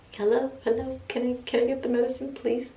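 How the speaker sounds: high-pitched polite plea; acted-out patient asking please; pleading call to nurse. Calling the nurse for medicine.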